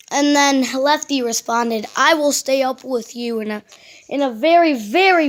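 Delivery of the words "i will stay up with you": put-on British accent; attempted strong British accent. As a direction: say it as a very British bear. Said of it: "very strong British accent".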